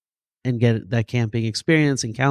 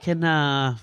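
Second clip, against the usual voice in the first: eager begging; 5 semitones higher than usual. Retold or imitated. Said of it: "They're like".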